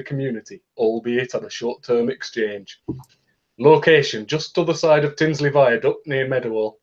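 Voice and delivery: reading in a light Yorkshire accent. Shown as a demonstration. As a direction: read it like a Yorkshireman. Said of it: "read this in a Yorkshire accent".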